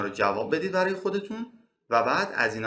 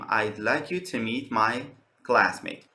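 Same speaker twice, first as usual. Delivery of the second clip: slightly slower, more careful take; a bit slower; 2 semitones lower, much slower than usual. Shown as a demonstration. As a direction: ease the sentence out word by word. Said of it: "یه خورده آرومتر که بخوایم بگیم".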